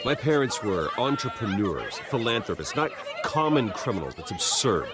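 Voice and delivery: scoffing through a disbelieving laugh; incredulous laugh. Acted. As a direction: laugh it off as ridiculous. Bruce defends parents to reporters.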